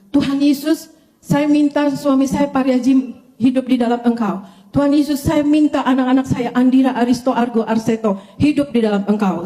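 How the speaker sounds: mild imitation of a shouted prayer; retold cried-out prayer. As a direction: reenact calling out to Jesus. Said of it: "Eh, saya teriak".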